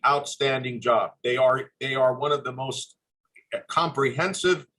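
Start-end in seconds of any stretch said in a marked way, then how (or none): none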